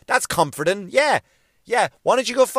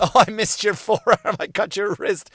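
mock flimsy guy; 4 semitones higher than usual. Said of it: "flimsy guy came along and went".

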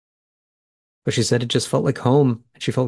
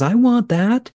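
high, louder burst of eager wanting; excited; 11 semitones higher, 3 dB louder, slower than usual. Retold or imitated. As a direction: jump in eagerly like a mom claiming her kids. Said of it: "excitedly says".

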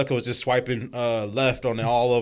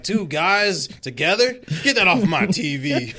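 mock outrage; 4 semitones higher, slower than usual. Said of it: "I'm like".

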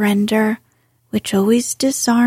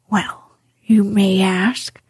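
reproachfully. Acted. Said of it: "said the rat reproachfully".

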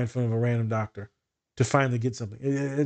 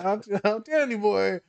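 insisting; 7 semitones higher than usual. Retold or imitated. Insisting to friend.

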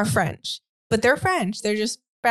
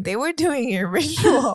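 laughing through the words, a little louder; 3 semitones higher, 3 dB louder than usual. Real, not acted. Co-host cracking up at the ritual chant, laughing. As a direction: crack up as you say it.

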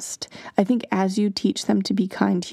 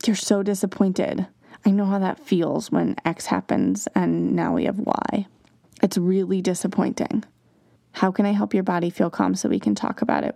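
calm validating. Shown as a demonstration. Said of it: "coming right back to that emotion".

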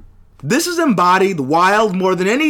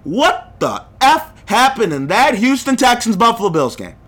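real frustrated rant; 3 semitones higher than usual. Real, not acted. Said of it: "I'm gonna scream, and I'm gonna yell".

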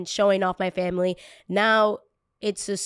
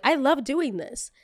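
imitated young enthusiasm; 6 semitones higher than usual.

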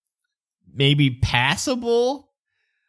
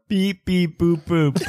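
muffled beep-boop through a door; robot beeping behind a door; toy robot voice; 4 semitones higher than usual. Pretend. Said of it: "you just hear, like, vaguely through the door".

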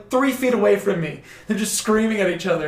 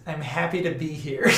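put-on grudging kid. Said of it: "all he says is".

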